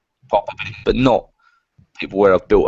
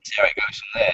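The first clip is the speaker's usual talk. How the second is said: whispered aside; 6 dB quieter than usual. Retold or imitated. Tentative sounding out of people.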